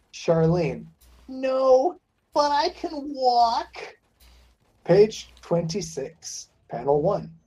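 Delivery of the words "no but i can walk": pained, wounded, slow and pitched up. Reading a comic script, a shot woman answers a man asking if she's all right, wounded and in pain. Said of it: "Her blood pressure still high as she clutches her bloodied flank from the bullet hole and she limps over towards someone. / Her blood pressure still high as she clutches her bloodied fl".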